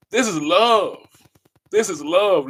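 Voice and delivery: loud, insistent This is love; forceful declaration. Real, not acted. Preaching love to his audience, forceful and loud. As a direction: declare it hard, twice.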